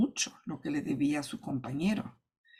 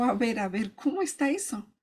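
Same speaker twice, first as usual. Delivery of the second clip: astonished king; 5 semitones higher than usual. Acted. King hears of the injustice.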